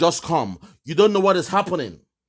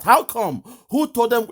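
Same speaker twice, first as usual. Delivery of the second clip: higher and louder, imitating a baffled question; mock incredulous; 6 semitones higher, 3 dB louder than usual. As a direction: ape the caller's disbelief. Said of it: "he's still asking".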